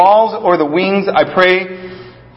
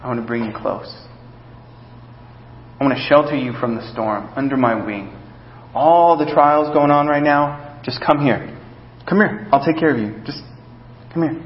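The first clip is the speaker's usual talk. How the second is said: soft, lower, tender invitation; soft calm calling close; gentle God voice; 3 semitones lower, 6 dB quieter than usual. Acted. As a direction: coax them in gently like sheltering under a wing. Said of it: "where he says".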